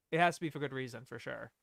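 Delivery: ordinary talk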